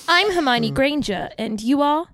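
lightly British schoolgirl introduction; Hermione Granger. Acted. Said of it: "I'm not good with Hermione Granger".

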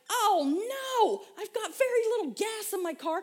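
high, loud alarmed cry; mock panic. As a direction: blurt it out in a rush of alarm. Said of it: "I'm like".

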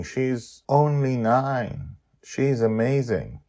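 earnest praise, lightly voiced; lightly voiced Madeline. Madeline tells Justin how brave his daughter was, lightly voiced.

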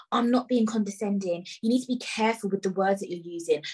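level, measured telling-off in imitation; condescending. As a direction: imitate an official talking down to someone. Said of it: "She was being so condescending".

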